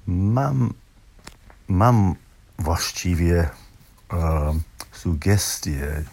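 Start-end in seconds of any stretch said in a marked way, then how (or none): none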